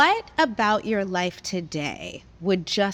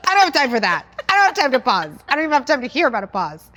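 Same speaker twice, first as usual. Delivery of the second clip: frantic; 6 semitones higher, 7 dB louder, much faster than usual. Pretend. Mock hurried impatient reaction.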